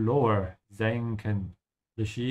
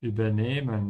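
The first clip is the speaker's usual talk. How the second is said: "Übernehmen" with the weight on NEH; stress on NEHMEN. Shown as a demonstration. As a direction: lean on "nehmen" in "Übernehmen", not the prefix. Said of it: "we emphasize nehmen".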